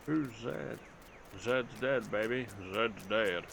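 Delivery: badly imitated film-hero accent; lightly put-on movie-quote accent, done badly; Bruce Willis. Gamer quoting a film line to viewers in a bad mock accent. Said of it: "Bruce Willis didn't have quite that bad an accent".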